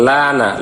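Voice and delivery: লা said with a thin, light l; লা with a light, thin lam. Shown as a demonstration. Teacher shows the wrong thin লা. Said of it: "উচ্চারণ হবে ল, লা না".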